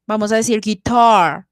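guitar with a lazy, swallowed A. Shown as a demonstration. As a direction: say guitar with the A pulled back inside. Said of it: "vamos a decir la A un poquito perezosa".

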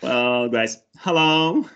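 lightly voiced class greeting, rising on hello; upbeat teacher greeting. Teacher opens the mock lesson, mildly upbeat greeting.

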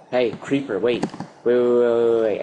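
loud pleading wait; shouting at a creeper to stop; urgent yell. Real, not acted. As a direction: call out urgently to the mob.

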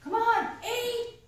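plead-warn with the count; frustrated mom stretching the count; exasperated mom. Retold or imitated. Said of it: "she's like".

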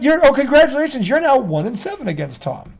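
fake-cheerful praise, dripping with sarcasm; sarcastic congratulations. Real, not acted. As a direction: congratulate them with heavy sarcasm. Mocking Cowboys fans' win.

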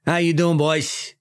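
lightly voiced New York chief; a hint of Brooklyn cop; New York accent. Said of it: "my classic New York accent".

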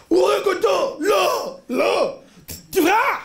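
high-pitched mock yell at the screen; panicked shouting. Film viewer warning the hero to flee, shouting high. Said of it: "מטומטם צועק לו".

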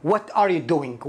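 "What are you doing" said slowly word by word; careful teaching pace on "What are you doing"; slow demo. Shown as a demonstration. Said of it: "مشهور جدًا السؤال".

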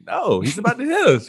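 high-pitched mock panic; acting out a panicked warning; retold alarm. Retelling his panicked protest in car.

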